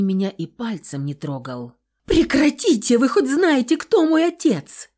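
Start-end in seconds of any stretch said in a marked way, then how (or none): 2.1-4.9 high, loud, indignant yell; angry outburst. A narrator's reading. Beaten rich girl yelling at her kidnappers, furious. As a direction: explode with hurt pride. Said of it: "Взорвалась я снова злостью".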